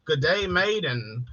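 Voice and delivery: playful attempt at a British-Irish accent; mock British Isles accent. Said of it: "Y'all share the same accent, almost".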